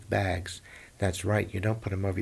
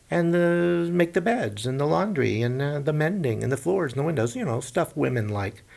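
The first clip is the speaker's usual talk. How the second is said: high, louder, rushing list; excited rattling off; 6 semitones higher, 3 dB louder than usual. Acted. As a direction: pile on the chores eagerly. Dwarf listing chores.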